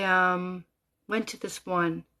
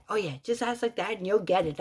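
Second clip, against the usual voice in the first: scoffing imitation, easing toward usual pitch; mocking. Driver alone in her car, still mocking the woman's advice. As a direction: toss her advice back dismissively. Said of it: "I'm mocking her".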